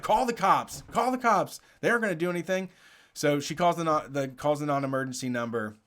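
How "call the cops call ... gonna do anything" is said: higher-pitched imitation of defiance; mock dare. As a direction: lightly mimic someone daring you. Retold protester daring them to call.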